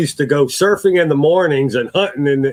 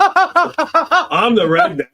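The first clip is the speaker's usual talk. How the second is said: much higher, very slow, laughing hick voice; mock redneck; 10 semitones higher, much slower than usual. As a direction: stretch it out like a hammed-up hillbilly. Repeating the redneck joke.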